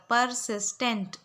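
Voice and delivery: each syllable stretched very slowly; dictation pronunciation. Shown as a demonstration. Teacher dictating a word slowly to students. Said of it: "pronounce कर रही हूँ".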